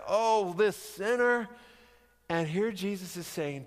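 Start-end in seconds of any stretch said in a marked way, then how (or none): 0.1-1.5 scornful guests. Retold or imitated. Guests looking down on her.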